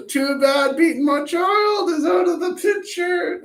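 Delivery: hammed-up fed-up parent; joking exasperated parent. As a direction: tease it as a joke threat. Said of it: "I'm kidding".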